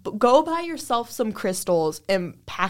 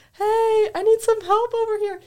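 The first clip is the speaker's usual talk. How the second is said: much higher, louder call for help; calling out on walkie; 13 semitones higher, 5 dB louder than usual. Retold or imitated. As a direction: call your boss over the radio. Calling boss on walkie-talkie.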